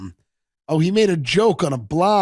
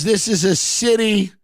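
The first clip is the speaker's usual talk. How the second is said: Rick's speech; 5 semitones higher than usual. Retold or imitated. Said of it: "He goes".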